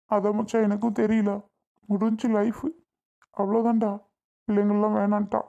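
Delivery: tearful and defeated; crying. Acted. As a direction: give up through tears. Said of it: "அழுதிட்டு இருக்கிறது". (அழுகையோடு மனமுடைந்து)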